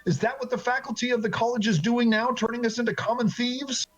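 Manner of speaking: indignant questions climbing in pitch; accusing. Acted. Angry former student confronts master over thieves, accusing. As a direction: press harder with each accusing question.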